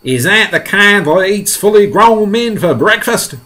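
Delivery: high, loud alarmed question; frightened. Acted. Fire chief fearing being eaten, frightened loud question. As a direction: ask it in high-pitched dread. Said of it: "going white as a sheet".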